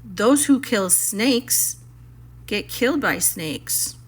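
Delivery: slow and mournful; sad. Acted. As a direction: let each word drag with gloom. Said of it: "more sadly than ever".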